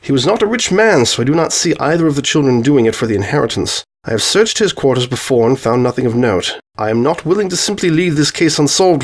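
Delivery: lightly acted detective setting out a case; lightly voiced Holmes, earnest. Holmes speaks in dialogue.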